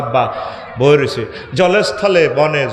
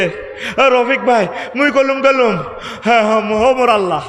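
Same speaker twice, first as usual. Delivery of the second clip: Barishal dialect; 6 semitones higher than usual. Retold or imitated. The preacher mimics a fainted Barishal classmate, in Barishal dialect. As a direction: imitate a dazed Barishal man coming round, blurting in dialect. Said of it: "original বরিশালের ভাষাটা কই লেছ বেহুশ হইবার সময়".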